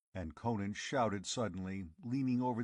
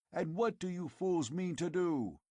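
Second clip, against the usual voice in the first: higher, scornful demand; 7 semitones higher than usual. Acted. Conan demanding of the tribesmen, scornful. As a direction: challenge them. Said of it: "demanded the Cimmerian".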